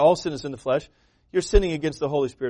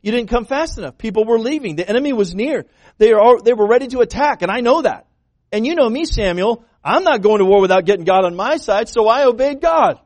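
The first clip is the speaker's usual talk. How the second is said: rising, louder defensive excuse; Saul's excuse; 4 semitones higher, 4 dB louder than usual. Retold or imitated. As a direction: argue your case to Samuel, pressing harder. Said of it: "Saul goes".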